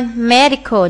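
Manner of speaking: slow "medical", weight on the opening syllable; first-syllable stress. Shown as a demonstration. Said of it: "nhấn âm một".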